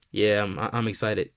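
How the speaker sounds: low, slow, unenthused mock excitement; deadpan sarcasm, dragged out slowly; sarcastic. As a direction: claim excitement while clearly not meaning it. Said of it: "I was being sarcastic there".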